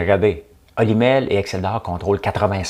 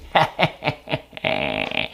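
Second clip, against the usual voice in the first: machiavellian laugh; 8 semitones lower, 4 dB quieter than usual. Pretend. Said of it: "j'ai un rire machiavélique".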